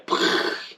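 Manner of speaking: unvoiced burst blown through the lips; imitated shot noise. Someone comes up to blow me away, imitated shot noise. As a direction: puff out a mock blast.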